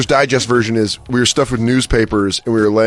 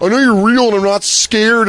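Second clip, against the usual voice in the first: much higher, cocky I'm-not-scared voice; defiant kid taunt; 11 semitones higher than usual. Retold or imitated. Kid facing a stuffed decoy, high cocky taunt. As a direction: call their bluff, brave kid. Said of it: "I'd be like".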